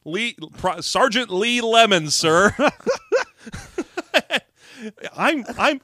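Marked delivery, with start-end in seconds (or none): 0.0-2.5 stumbling over an invented name; fumbling fake name. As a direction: make up a name on the spot, hesitating.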